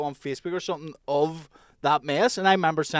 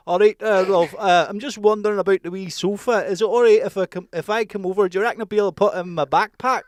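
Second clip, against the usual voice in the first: hammed-up Scottish accent, a touch louder and higher; mock Scottish prank caller; 5 semitones higher, 6 dB louder than usual. Mocking his mate's prank call in a put-on Scottish accent. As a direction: retell the fake Scottish buyer in Scottish. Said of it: "my voice changed from Scottish to Irish".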